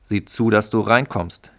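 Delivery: controlling husband ordering his wife indoors; bossy order. Acted. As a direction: bark her back inside. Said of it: "herrschte er die Frau an".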